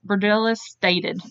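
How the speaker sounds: slow, oddly deliberate announcement; odd drawn-out delivery. Real, not acted. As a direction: stretch the words out slowly. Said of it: "why I said it like that".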